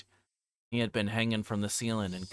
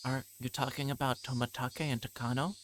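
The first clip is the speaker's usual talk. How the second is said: Rika's voice; 4 semitones higher than usual. Acted. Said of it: "Rika answered".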